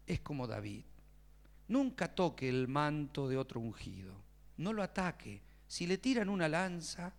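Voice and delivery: voz baja y pausada de viejito consejero; aconsejá con calma, grave y suave, como un pastor anciano; pastor mayor. Retold or imitated. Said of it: "un hombre mayor, viejito". (pastor anciano sereno)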